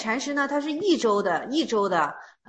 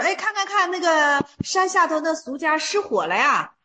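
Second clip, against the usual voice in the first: excited pointing out; 4 semitones higher than usual. Retold or imitated. Monk points out a fire.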